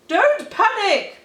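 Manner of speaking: high, loud urgent bark; frantic loud command; barked passionately. Acted. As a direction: bark the order at panicking dogs. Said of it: "barked Clive in a great fit of passion".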